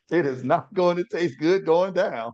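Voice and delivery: high-pitched, emphatic preacher's cadence; preaching exhortation. Real, not acted. Co-host playing the honest friend, preaching it high and emphatic.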